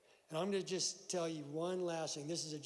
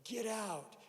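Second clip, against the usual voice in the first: higher-pitched mock order to jump; lightly acted command; imitated jump master; 6 semitones higher than usual. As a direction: call it out like a jump master, not at full volume. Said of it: "hear the jump master go".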